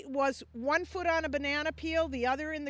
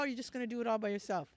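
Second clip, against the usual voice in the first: laughing tease; 3 semitones lower, 6 dB quieter, much faster than usual. Real, not acted. Teasing question to the Lord.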